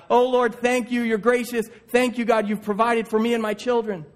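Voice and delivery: a mother pouring out thanks to God; grateful praying mom. Acted. Single mom thanking God for provision, lifted and grateful.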